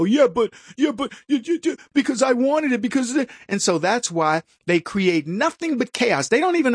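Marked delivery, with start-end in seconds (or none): 0.0-3.3 mock excuse. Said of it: "and they go".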